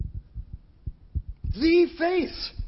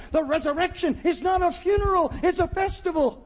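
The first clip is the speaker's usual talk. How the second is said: forceful preaching; 5 semitones higher than usual. Real, not acted. Preacher exclaims.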